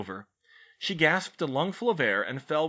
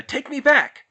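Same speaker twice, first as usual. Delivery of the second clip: angry yell; 12 dB louder than usual. A narrator's reading. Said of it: "he yelled".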